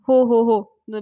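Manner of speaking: loud, hurried placating; flustered agreement. Acted. Landlord held by the collar, loud flustered agreement. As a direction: agree at once to appease.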